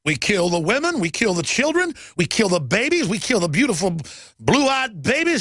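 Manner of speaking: hammed-up rally speech, climbing in pitch; mocking a firebrand speaker; imitating Khalid Muhammad. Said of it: "Remember Khalid Muhammad?".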